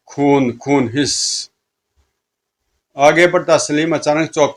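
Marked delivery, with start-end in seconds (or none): 0.1-1.5 drawn-out ghoulish craving, ending in a hiss; monster's hungry hiss; bloodthirsty fiend. Acted.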